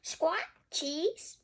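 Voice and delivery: high parrot voice, rising on each word; upward-lilting bird mimicry; Polly. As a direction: repeat it like a parrot. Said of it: "Polly repeats".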